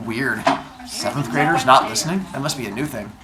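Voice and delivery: dry sarcasm at the class; sarcastic. Real, not acted. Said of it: "That's called sarcasm".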